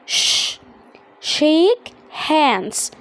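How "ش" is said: "ش" as a lone sh; SH as one sound. Shown as a demonstration. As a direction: give "ش" as one isolated sh sound. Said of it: "اس اتش بتديني صوت". (نطق "ش" كصوت واحد)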